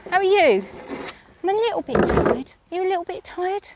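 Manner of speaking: high, lilting chat with a horse; pet talk. Real, not acted. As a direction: fuss over your horse and answer for it.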